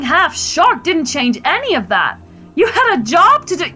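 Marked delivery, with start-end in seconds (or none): 2.6-3.7 high, accusing pitch; heated reproach. Acted. Wife scolding husband about his job, heated. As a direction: throw the duty in his face. Wife corrects herself mid-quarrel.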